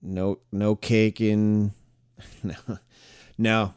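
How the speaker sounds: stifled giggles. Real, not acted. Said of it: "I'm trying not to laugh".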